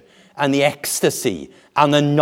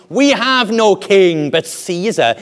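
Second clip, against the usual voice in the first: loud, raised-pitch rejection; defiant crowd; 6 semitones higher, 5 dB louder than usual. Acted. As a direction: refuse him forcefully, as a crowd. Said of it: "when they were asked".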